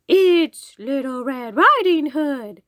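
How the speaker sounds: high, slow, loud mock little-girl call. A narrator's reading. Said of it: "called the wolf in a little girl voice".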